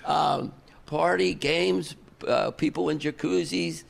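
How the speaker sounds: retelling Axl's pitch through laughter; laughing retelling. Retold or imitated. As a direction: describe the party while cracking up. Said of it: "He goes".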